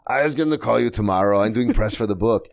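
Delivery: lightly voiced Austrian father; understated Austrian accent, not overboard; Arnold Schwarzenegger. Father explains himself to daughter, subtle Austrian impression. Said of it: "that's a good impression 'cause you're not going overboard".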